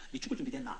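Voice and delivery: retold spiteful question, hushed and low; nasty question. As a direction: needle him coldly where it hurts. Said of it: "아주 못되게 물었습니다".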